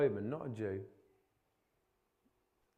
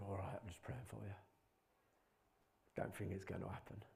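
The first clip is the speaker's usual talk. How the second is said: half-hearted prayer; 3 semitones lower, 12 dB quieter, faster than usual. Retold or imitated. Mimicking his own half-hearted prayer.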